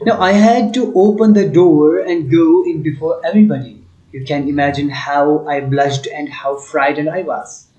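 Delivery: slow, deliberate text reading for the class; slow reading aloud. Acted. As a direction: read each phrase slowly for students. Teacher reads English text aloud. (धीमी आवाज़ में पाठ पढ़ना)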